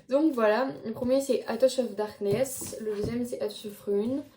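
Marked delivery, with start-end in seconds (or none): 1.5-2.8 English title in a French accent. Real, not acted. Vlogger reading out her series' first title, French-accented English. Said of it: "Mon accent anglais il est parti en vacances". 3.4-4.2 English title with French sounds; French-accented English. Real, not acted. Vlogger naming the second book's title, French-accented English. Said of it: "Mon accent anglais il est parti en vacances".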